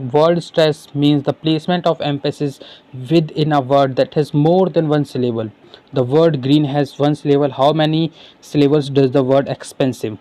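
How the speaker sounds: very slow, careful question read-out; slow classroom dictation. Acted. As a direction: spell it out slowly for students. Reads exam question aloud.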